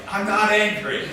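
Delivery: a touch of hammed-up indignation; defensive denial. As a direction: deny it a little too hard. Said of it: "the person's like".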